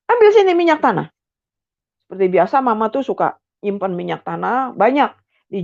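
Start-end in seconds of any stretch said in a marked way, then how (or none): 0.1-1.1 high, loud barked order; father shouting an order. Retold or imitated. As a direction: call for it in rage. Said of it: "Dia panggil lah namanya". (ayah berteriak menyuruh)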